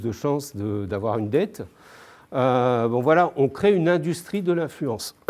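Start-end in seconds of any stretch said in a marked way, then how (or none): 2.9-5.2 speaking through a face mask; muffled behind a mask. Real, not acted. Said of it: "C'est dur de causer avec le masque". (voix étouffée par un masque)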